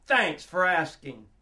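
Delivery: slow, deflated sign-off after an outburst; slow, sour courtesy; sarcastic thanks. Acted. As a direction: drop out of the yell into dry thanks.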